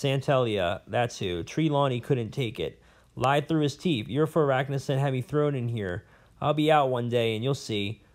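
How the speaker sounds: a lightly voiced old scholar, rambling and bitter; a hint of a cranky old professor holding forth; jailed old professor. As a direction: play the disgraced academic nursing his grudges. Prisoner professor rants to Lyra.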